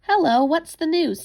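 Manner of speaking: high, loud eager hello; lively rabbit greeting his siblings, eager. A narrator's reading. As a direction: bound in asking for news. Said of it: "said the lively little rabbit".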